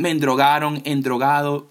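"endrogado" said with an extra en- before drogado; mock the wrong word "endrogaron", stressing the added en-; imitating how people wrongly say "endrogado" instead of drogado; mispronounced word. Shown as a demonstration. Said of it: "esa palabra tan mal dicha".

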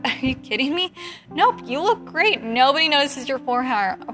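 retold incredulous protest, laughter behind it; amused disbelief. Photographer to a self-critical client, amused disbelief. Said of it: "I couldn't help but laugh".

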